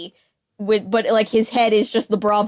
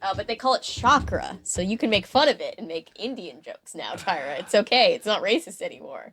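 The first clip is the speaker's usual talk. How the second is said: mock-reassuring sarcasm, trailing off softer; very sarcastic; 3 semitones lower, 4 dB quieter than usual. Podcaster mocking an author's excuse for stereotypes, very sarcastic. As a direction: feign approval, dripping with sarcasm. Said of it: "I said very sarcastically".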